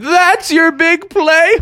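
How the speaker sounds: high, slow mocking skunk voice; a high, taunting skunk character; mocking Stinky. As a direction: sneer it out in a high squeaky voice.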